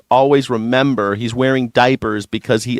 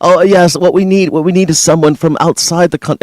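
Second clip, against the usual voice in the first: lightly posh-mocking British accent, a little higher; 3 semitones higher than usual. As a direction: imitate a British outsider. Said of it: "doesn't have an accent".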